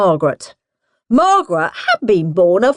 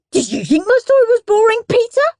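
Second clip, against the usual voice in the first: demanding; 10 semitones higher, faster than usual. Acted. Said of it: "demanded Henry".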